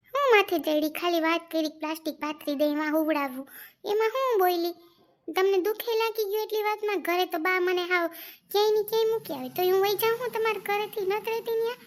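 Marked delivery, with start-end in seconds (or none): 3.9-11.7 high, heated protest; indignant protest. Acted. Wife defending herself against husband's anger, high and indignant. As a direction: pitch up in hurt disbelief.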